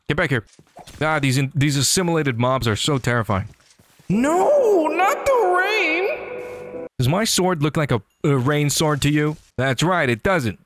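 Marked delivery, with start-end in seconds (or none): 4.1-6.9 mock despair. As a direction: wail at the rain like a tragic hero. Mock wail at the rain.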